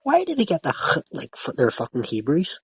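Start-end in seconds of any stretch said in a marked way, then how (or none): 0.7-1.0 "h" as a rasped guttural sound; imitated Scouse throat-clearing "h"; Scouse throaty h. Shown as a demonstration. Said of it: "why the Scousers".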